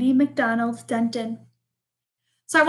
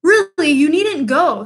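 pleading; 4 semitones higher, 6 dB louder than usual. Acted. Bear pleading with mouse.

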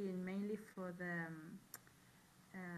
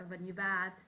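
"new" punched out louder; stress on new; 7 dB louder than usual. Shown as a demonstration. Student showing teacher how "new" takes accent. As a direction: hit "new" hard in the example phrase. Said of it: "if the speaker wants to accentuate that word".

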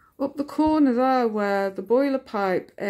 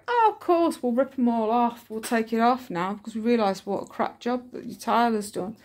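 sarcastic mock contractor; 3 semitones higher than usual. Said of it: "and then they're gonna go".

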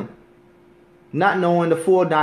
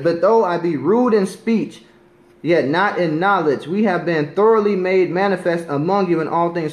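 scripture reading; 3 dB louder than usual. Acted. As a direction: read the verse out deliberately, with weight. Reads scripture aloud.

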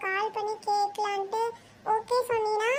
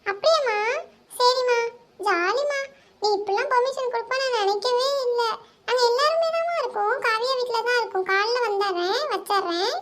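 loud, happy, bubbly; excited; 4 dB louder than usual. Acted. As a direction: squeal with delight at mom's yes. Girl thrilled by mom's permission. (அம்மாவிடம் உற்சாகமாக)

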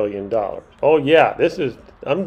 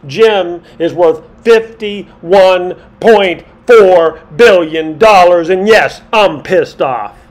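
louder and louder, slow on the figures, a hammed-up rant; mounting mock anger; 3 semitones higher, 6 dB louder than usual. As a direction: build from annoyed to mock fury as the fortunes go up. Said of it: "Yes, I'm getting real angry now".

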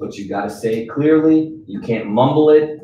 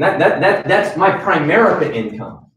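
chuckling through the words, a bit higher; laughing; 3 semitones higher than usual. Real, not acted. Trainer bragging to recruits about his income, laughing.

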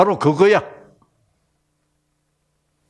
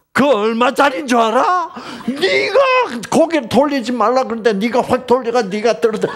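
higher, sharp mock scolding with a laugh; scolding father; 9 semitones higher than usual. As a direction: play the petty dad over sunglasses. Conditional father scolding daughter. (선글라스 아끼는 아빠의 꾸짖음)

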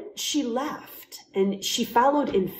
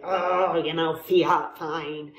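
grumbling; 4 semitones lower, slower than usual. Shown as a demonstration. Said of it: "grumble and say".

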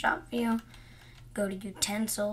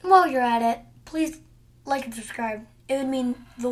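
suddenly loud plug to viewers; loud channel plug; loud call-out; 6 dB louder, faster than usual. Real, not acted. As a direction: burst in loudly with the ask. Calling out to viewers.

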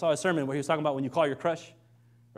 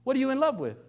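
indignant retort; 6 semitones higher, 4 dB louder than usual. Retold or imitated. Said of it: "You'd be like".

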